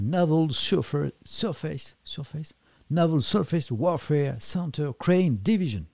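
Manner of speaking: slow, careful American English accent on the navy name; hammed-up American accent, spelling out each word; put-on American accent. Shown as a demonstration. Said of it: "je prends mon plus bel accent".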